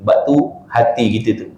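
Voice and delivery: ordinary talk, nothing marked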